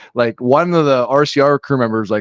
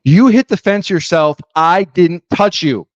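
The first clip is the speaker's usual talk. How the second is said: mock-indignant denial, pitched up; raised voice, dragging out the denial; playing a defensive driver; 4 semitones higher than usual. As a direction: act out refusing the blame. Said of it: "I'm Ricky".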